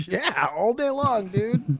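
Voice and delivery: laughing yeah all day. Real, not acted. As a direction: chuckle through it, emphatic. Laughing emphatic agreement.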